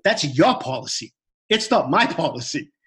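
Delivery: slow, emphatic pushback; defiant retort. Retold or imitated. Arguing with gym staff over the policy, defiant. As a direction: retell the comeback slowly, word by word.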